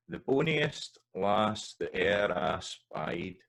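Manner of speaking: boniest drawn out in Scots; slow lyric reading. Shown as a demonstration. Teacher reading a ballad line aloud, slow and Scots. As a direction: read it slowly like a ballad line. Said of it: "you might want that as bit".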